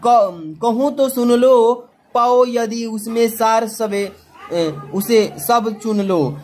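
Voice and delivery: slow, measured reading of the verse; teacher reading a poem from the exam paper to students, slow recitation. Acted. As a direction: recite the stanza line by line, slowly. Reads a poem aloud slowly.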